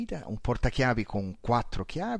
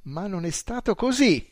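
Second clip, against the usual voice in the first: smug, higher victory line; triumphant; 7 semitones higher, 6 dB louder than usual. A narrator's reading. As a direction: gloat over the trick. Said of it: "disse trionfante".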